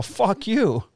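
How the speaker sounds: high, loud curse hurled back; angry yell. Retold or imitated. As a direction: spit it at him. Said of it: "huge yelling match".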